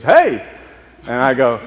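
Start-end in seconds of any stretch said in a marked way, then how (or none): 0.0-0.4 put-on high, loud Southern girl's greeting; Southern accent. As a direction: imitate a Southern girl calling hey. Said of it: "she's got a southern accent".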